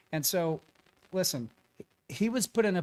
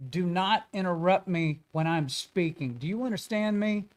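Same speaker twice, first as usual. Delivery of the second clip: stern parental scolding; 2 semitones higher than usual. Retold or imitated. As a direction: scold him like you would one of your kids. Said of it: "like you look at one of your kids".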